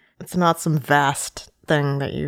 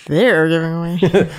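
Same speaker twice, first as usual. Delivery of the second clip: slow, louder "They're" leaned on hard; mock emphasis on "They're"; stress on they're; 5 dB louder, slower than usual. Shown as a demonstration. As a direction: savour the wrong stress on "They're". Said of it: "repeating the wrong emphasis".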